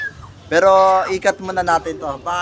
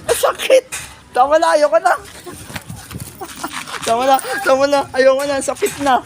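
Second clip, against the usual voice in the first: hit hard crying out; 5 semitones higher than usual. Pretend.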